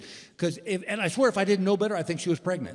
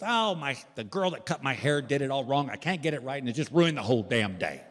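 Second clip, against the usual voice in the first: lightly acted grumbling complaint, trailing lower; mock pissy wife; 3 semitones lower than usual. Wife blaming her hair for a bad day, mock pissy grumble. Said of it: "Gail was in a pissy mood".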